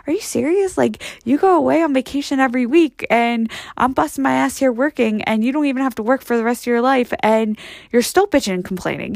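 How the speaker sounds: starts high in disbelief, easing down; acted exasperated disbelief; incredulous rebuke. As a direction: call out a spoiled complainer, incredulous. Acted rebuke of spoiled complainers.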